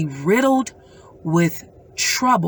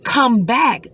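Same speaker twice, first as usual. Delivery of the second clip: called out high and slow; calling out; 5 semitones higher, slower than usual. Retold or imitated. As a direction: call her back from the curb. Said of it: "I called out to her and I said".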